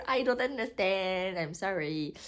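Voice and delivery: plainte comique aux mots étirés; étire les mots, faussement désemparée; confusion surjouée. Retold or imitated. Rejoue sa confusion de lectrice en riant. (désarroi exagéré, pour rire)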